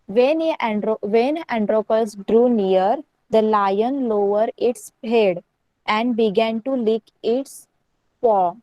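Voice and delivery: reading the story aloud very slowly, word by word. Acted. Teacher reads the English story to her class in a slow reading voice. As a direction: read each phrase out slowly so the pupils can follow.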